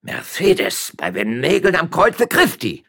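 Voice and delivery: high, loud desperate cry; magistrate shouting. Acted. Magistrate shouting at his wife in front of witnesses, loud. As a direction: yell his wife's name in alarm. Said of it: "schrie der Stadtrichter".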